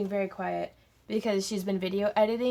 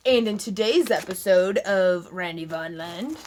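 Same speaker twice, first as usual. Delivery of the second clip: announcer voice, louder, booming promo; fighting game announcer; 3 semitones lower, 4 dB louder than usual. Shown as a demonstration. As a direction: announce the episode like a show host. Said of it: "that's my announcer voice".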